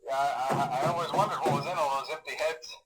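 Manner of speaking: quiet, hesitant phone message, trailing into pauses; uneasy, halting. Acted. Night guard leaving a last message on a bad night, uneasy. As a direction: hold back fear and keep it casual, softly.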